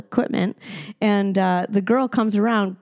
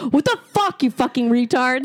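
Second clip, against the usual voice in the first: mock yell; 4 semitones higher than usual. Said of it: "I'm like".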